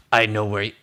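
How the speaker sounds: low, lightly imitated Northern Irish accent. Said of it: "he's a Northern Irish accent".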